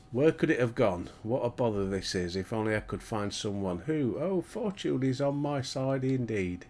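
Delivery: lightly voiced fussy gentleman asking for help; a hint of a flustered scholar seeking aid; worried quest-giver. Player voices the game's quest-giver, lightly fussy. Reads a game NPC's lines.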